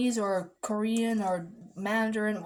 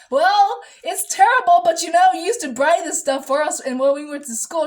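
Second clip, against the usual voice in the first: retold retort; 7 semitones higher, 9 dB louder than usual.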